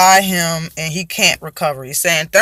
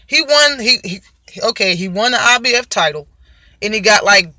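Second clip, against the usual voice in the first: mimicking Danny Garcia; 4 semitones higher than usual. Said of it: "That's how he said it".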